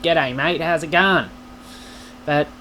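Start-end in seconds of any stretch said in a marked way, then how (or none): 0.0-1.3 put-on broad Australian accent; broad Aussie greeting. Shown as a demonstration. Mock video intro to viewers, broad Australian accent. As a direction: greet them like a stereotype Australian. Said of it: "start all my videos to you guys with".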